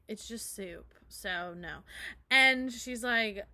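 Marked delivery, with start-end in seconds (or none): 0.1-1.8 hushed, voiceless dismissal; whispered brush-off. Retold or imitated. Kyle whispering to Amber to calm her down. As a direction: breathe it out like a secret. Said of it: "And he's like".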